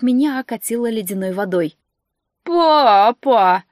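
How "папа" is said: loud outraged creature yell; outraged bird's yell; indignant cry. Acted. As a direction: wail in indignation. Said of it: "снова возмутился Анджей".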